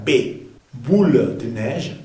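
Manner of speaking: "boule de neige" with a clear B made with both lips; slow "boule de neige", stressing the B. Shown as a demonstration. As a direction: demonstrate the B in "boule". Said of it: "y la B larga".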